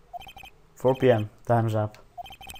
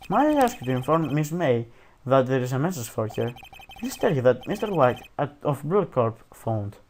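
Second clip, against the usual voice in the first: bad British accent. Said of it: "I do the worst British accent".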